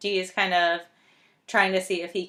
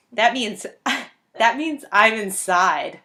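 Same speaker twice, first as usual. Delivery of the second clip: laughing while quoting; 2 semitones higher, 5 dB louder, slower than usual. Retold or imitated. Laughing through a retold line.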